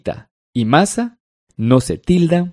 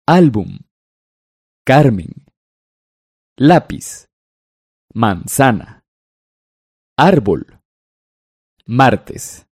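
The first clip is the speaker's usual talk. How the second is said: each word said slowly on its own, stress on the second to last syllable; Álbum, Carmen, lápiz: clear penultimate stress; careful word reading; slower than usual. Shown as a demonstration. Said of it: "Leamos en voz alta las siguientes palabras".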